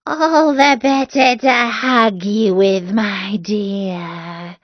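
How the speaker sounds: the wolf answering sweetly but menacing, slow; a hint of a sly wolf playing granny; wolf as grandmother.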